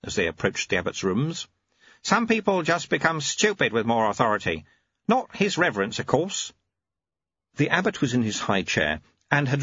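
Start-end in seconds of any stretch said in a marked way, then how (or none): 2.0-6.5 put-on a lightly raised, dry old monk voice; wry, patient old teacher; knowing old monk, a little higher; old monk Lutze. Lutze speaking, narrator voicing him.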